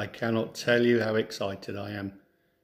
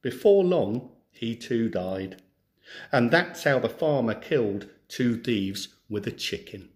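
clear, lively storybook reading; story narration; 3 dB louder than usual. Acted. Teacher reads a folk tale to schoolchildren, storybook narration. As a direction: read the tale to a class of children.

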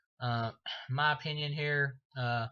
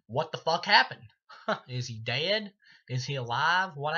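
baffled outburst; 2 semitones higher, 5 dB louder than usual. Real, not acted. Baffled by the ending.

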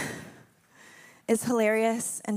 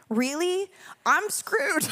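mock despair; 5 semitones higher, much slower than usual. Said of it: "read Genesis and been like".

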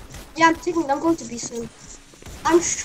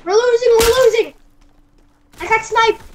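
panicked shout; 4 semitones higher, 5 dB louder than usual. Real, not acted. Panicked losing.

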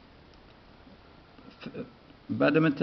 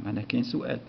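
normal talking voice

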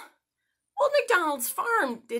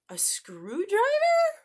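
whisper; 8 semitones higher than usual. Pretend. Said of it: "Fair enough".

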